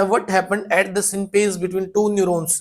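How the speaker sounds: slow, deliberate reading; slow question reading. Shown as a demonstration. Teacher to class, reading the question slowly. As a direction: read it out clearly for students. Reads next question aloud.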